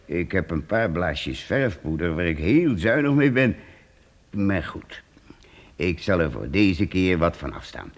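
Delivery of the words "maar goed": whispered, grudging; a reluctant whispered concession; whispered aside. Acted. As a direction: give in under your breath. Priest reluctantly gives up paint.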